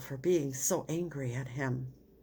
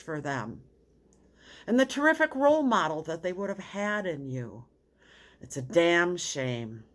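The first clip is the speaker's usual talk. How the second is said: a counselor's heated, indignant outburst, partly raised; retold outburst; 2 semitones higher than usual. Counselor to teacher Tom, angry at the rotten politics, outburst. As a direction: let it burst out on his behalf, angry at the politics. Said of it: "partly at my outburst".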